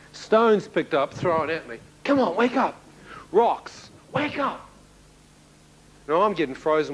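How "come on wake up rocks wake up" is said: higher, lightly voiced girl calling; girl's taunting call. Girl outside the window calls to wake him, higher voice. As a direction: tease him awake in a sing-song girl voice.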